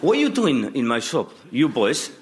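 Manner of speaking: Greek kebab man. Retold or imitated. Kebab shop owner scolding boys, light Greek accent. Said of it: "He'd say".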